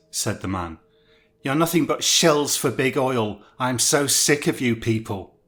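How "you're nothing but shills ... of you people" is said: ranting, louder and wild; unhinged shouting. Acted. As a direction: rant like a crank losing it. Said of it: "He was shouting and appeared more than slightly unhinged".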